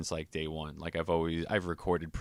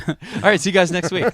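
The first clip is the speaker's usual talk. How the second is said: radio sign-off; 11 semitones higher, 13 dB louder, faster than usual. Pretend. Mock sign-off after intro.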